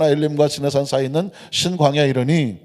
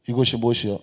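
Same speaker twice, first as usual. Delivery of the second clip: low, softer Chungcheong accent; Chungcheong dialect; 6 semitones lower, 5 dB quieter, faster than usual. Shown as a demonstration. Preacher puts the verse into Chungcheong speech for the congregation, Chungcheong accent. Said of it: "충청도 말로".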